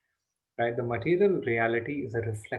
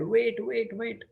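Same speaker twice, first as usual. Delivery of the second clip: higher, urgent calls of a chasing mother; upset mother calling; 8 semitones higher, slower than usual. Acted. Yashoda chasing her naughty son, calling urgently. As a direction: call after the running boy, a bit exasperated.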